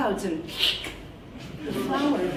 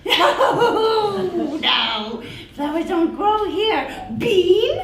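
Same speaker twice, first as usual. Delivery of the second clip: high, loud, fast monster voice; creepy creature voice; 8 semitones higher, 6 dB louder, much slower than usual. Acted. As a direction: insist brightly, slightly offended. Creature offers bean.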